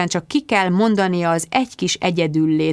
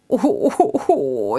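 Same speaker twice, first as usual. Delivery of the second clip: wailing; much slower than usual. Acted.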